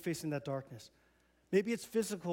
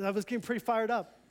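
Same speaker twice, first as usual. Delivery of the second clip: fired up; 4 semitones higher than usual. Real, not acted. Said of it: "You see, I'm getting riled".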